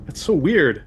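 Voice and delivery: shocked what. Retold or imitated. Retelling a shocked reaction in a shop.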